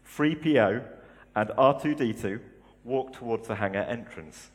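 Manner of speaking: steady storytelling read-aloud voice; story reading. Acted. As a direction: read it like a book to a congregation. Reads a Star Wars passage.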